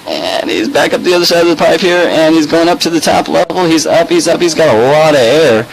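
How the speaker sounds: high, hyped play-by-play call; wrestling commentator. Acted. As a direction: go way up, like a wrestling announcer. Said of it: "wrestling commentator".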